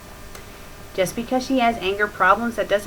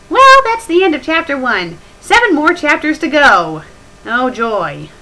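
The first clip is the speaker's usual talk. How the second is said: sarcastic cheer; 5 semitones higher, 8 dB louder than usual. Real, not acted. Mock enthusiasm about more chapters.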